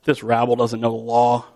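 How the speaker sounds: low-pitched, dismissive put-down; mildly acted disdain; dismissive sneer. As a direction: look down on the common crowd. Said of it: "they sniffed dismissively at the common crowd".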